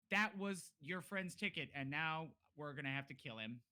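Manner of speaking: loud, deliberate threat; menacing reproach. Acted. Kid passing sentence on the stranger's friend, menacing.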